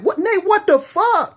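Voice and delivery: high, slow, loud outrage; shocked teacher. Retold or imitated. Dorm teacher catching Nate, high slow outraged cry. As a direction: catch the kid mid-punch, appalled. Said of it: "Missus Smith... like".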